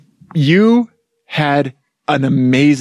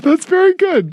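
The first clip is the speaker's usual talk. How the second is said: excited; 13 semitones higher than usual. Acted. Repeated with a different take.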